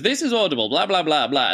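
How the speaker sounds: lightly mocking audiobook intro; announcer impression. Host mocks the audiobook's opening, lightly announcer-like. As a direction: rattle off the intro like a bored announcer. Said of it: "But it goes".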